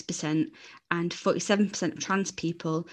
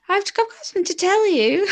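high, tense, bracing for it; nervous high voice; 13 semitones higher, 5 dB louder than usual. Retold or imitated. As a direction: work up the nerve. Nervous coming-out setup.

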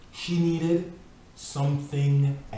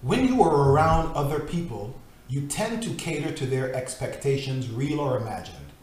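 measured, earnest reading of a devotional book; solemn devotional reading. Acted. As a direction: read it like scripture, steady and grave. Reads devotional text aloud.

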